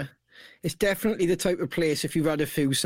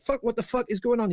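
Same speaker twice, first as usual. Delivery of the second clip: panicked quote; 6 semitones higher, faster than usual. Retold or imitated. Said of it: "It's like".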